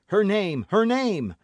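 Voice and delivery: high, loud demanding cry; urgent cry. A narrator's reading. D'Artagnan demanding the name, loud urgent cry. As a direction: shout it out desperately. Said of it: "cried D'Artagnan".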